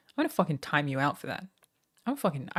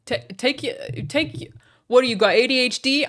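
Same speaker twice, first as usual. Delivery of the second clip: loud, high jeering insult; mock angry yell; 6 semitones higher, 8 dB louder than usual. Streamer insulting chatter on request, hammed-up yell. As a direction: jeer it like a schoolyard bully. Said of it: "I'm doing good, right?".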